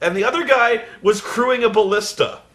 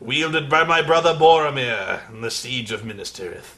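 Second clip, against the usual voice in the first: slow, solemn legend-telling; mock epic narration; 3 semitones lower than usual. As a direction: intone it like an ancient chronicle. Epic Lord of the Rings parody.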